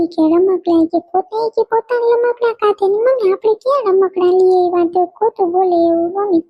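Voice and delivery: put-on a kid telling on her cousin; tattling child. Little girl tattles to her mother about her cousin's toys.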